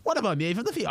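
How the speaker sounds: mock heckle. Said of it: "I was like".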